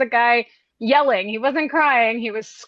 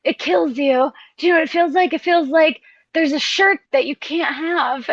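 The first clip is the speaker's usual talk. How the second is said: mock crying; 4 semitones higher than usual. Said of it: "crying, uh, saying".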